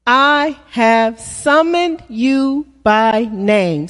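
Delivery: slow echo of the verse; slow repeat. Shown as a demonstration. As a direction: let it sink in slowly. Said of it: "Say that with me".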